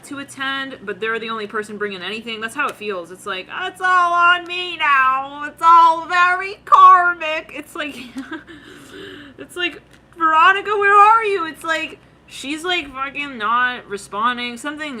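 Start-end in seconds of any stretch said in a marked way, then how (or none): 3.5-7.5 loud, high, long-drawn lament; mock woeful wail. Acted wail of burdened person. 10.2-11.4 high, loud mock-desperate call. Calling out for absent Veronica.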